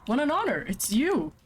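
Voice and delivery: high gushing excitement, Russian accent dropped; excited. Shown as a demonstration. Player meeting Mama Huntress, starstruck and gushing. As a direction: gush at her like a starstruck fan. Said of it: "it's an honor to meet you?".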